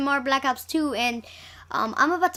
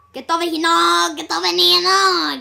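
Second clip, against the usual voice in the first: calling from far away; 4 semitones higher, 7 dB louder than usual. Real, not acted. Calling teammate in game.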